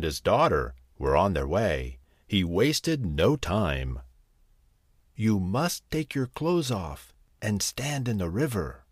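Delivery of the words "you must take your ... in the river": sly cat voice. Acted. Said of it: "the cat told his master".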